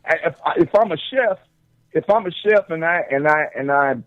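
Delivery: talking while chewing popcorn; words around a mouthful; munching popcorn. Real, not acted. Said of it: "I'm eating popcorn right now".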